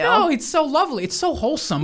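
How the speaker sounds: high-pitched gushing coo. Real, not acted. Gushing over Bush's painting hobby.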